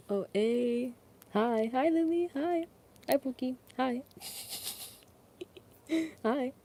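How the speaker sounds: high, bright hellos to chat; excited greeting. Real, not acted. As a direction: squeal hi to each viewer. Greeting viewers on stream.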